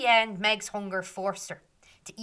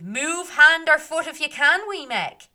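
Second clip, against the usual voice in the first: higher, much louder mocking challenge; fairy men shouting; 8 semitones higher, 12 dB louder than usual. Fairy men taunting frozen Meg, loud and high. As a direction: shout it down at her. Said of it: "the men shouted".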